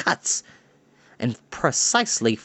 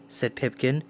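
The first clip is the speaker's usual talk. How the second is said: usual speaking voice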